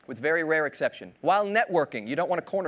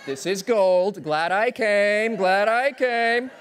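mock delighted; 4 semitones higher, 5 dB louder, much slower than usual. Audience voiced, slow and loud.

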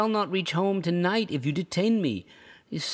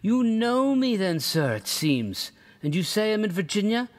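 put-on higher, affronted old traveller; indignant rebuke; 8 semitones higher than usual. A narrator's reading. Rugg scolding the narrator, indignant and raised. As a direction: tell him off as impudent.

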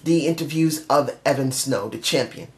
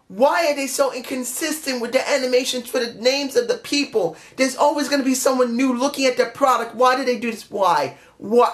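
exasperated rant; 4 semitones higher than usual. Real, not acted. Rant continues.

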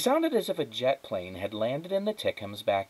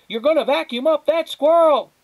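much higher, loud alarmed cry; shouting; 10 dB louder than usual. A narrator's reading. Flora recalling her own shout, loud and high. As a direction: replay the absurd yell. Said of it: "you would shout".

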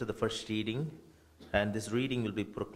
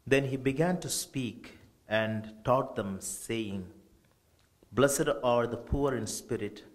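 each beatitude lifted and then settled; gospel proclamation; 3 dB louder than usual. Acted. Priest reading Matthew at the funeral, solemn proclamation.

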